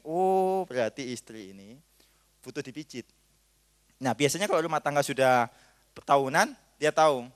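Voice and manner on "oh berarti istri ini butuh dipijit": falling to a low, soft murmur; musing husband. Retold or imitated. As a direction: work it out quietly to yourself. Husband figuring out the hint. (suami bergumam pelan menyimpulkan)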